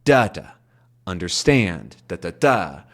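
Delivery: "understand" tapped out as da da da with stress on the last beat; rhythm demo. Shown as a demonstration. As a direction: bounce the beats of "understand". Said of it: "these bounces".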